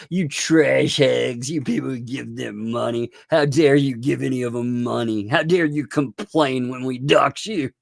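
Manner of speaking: hammed-up outrage from the critics; mock sneer. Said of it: "then they were like".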